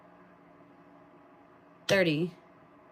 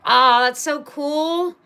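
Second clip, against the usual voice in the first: higher, louder, slow happy coo; delighted gush; 7 semitones higher, 7 dB louder than usual. Real, not acted. Happy about the win, cooing with delight. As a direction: savour the joy out loud.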